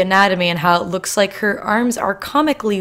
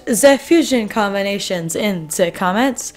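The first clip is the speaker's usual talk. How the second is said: slow drifting mock accent, German or Russian sliding into robotic French; deliberately slow, mixing German, Russian and robotic French sounds; made-up foreign accent. Opening the vlog in a mystery made-up accent, slow and mock-serious. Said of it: "I don't even know what accent one that was".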